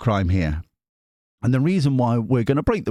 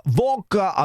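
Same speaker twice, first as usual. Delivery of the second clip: "vodka" said higher, in a mock Russian accent; warming up a Russian voice with "vodka"; 8 semitones higher than usual. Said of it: "Russian voice".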